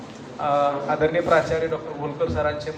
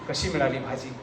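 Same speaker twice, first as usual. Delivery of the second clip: soft wife's call; 6 semitones lower, 9 dB quieter than usual. Acted. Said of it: "बायको ओरडली".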